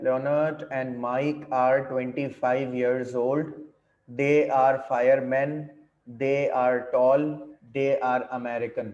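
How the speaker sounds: slow, measured dictation to a class; worksheet read-aloud. Acted. Teacher reading exercise sentences to students, measured read-aloud. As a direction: read each sentence out distinctly, word by word.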